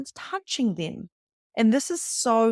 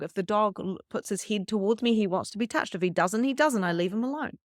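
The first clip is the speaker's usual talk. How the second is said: ordinary talk, nothing marked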